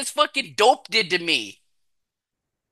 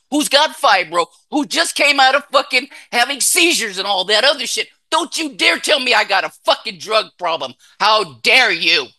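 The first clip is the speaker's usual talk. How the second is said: indignant denial; 3 semitones higher than usual. Retold or imitated. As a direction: fire back, insulted at the very idea. Mimicking his furious denial.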